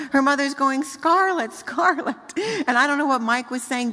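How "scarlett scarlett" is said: urgent mock call of a name. Mother calling toddler near road, loud urgent call. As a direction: call her back from the street.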